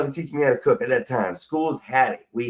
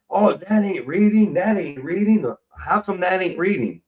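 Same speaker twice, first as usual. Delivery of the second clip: brother scoffing; 5 semitones higher than usual. Retold or imitated. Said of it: "I told my brother".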